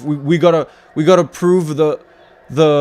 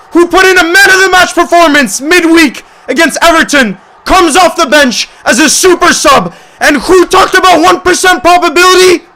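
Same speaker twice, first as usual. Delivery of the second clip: screaming with joy, much higher and louder; ecstatic goal shout; 13 semitones higher, 8 dB louder than usual. Real, not acted. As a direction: roar the celebration as the sub scores. Fan celebrating a late goal.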